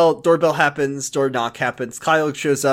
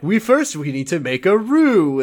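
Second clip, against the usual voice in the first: Kyle; 6 semitones higher than usual. Retold or imitated. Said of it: "Kyle's like".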